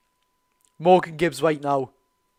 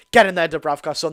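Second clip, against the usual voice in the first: loud cheer for the keeper; cheering shout; 6 dB louder than usual. Real, not acted. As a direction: roar your keeper on after the save. Fan cheering a save.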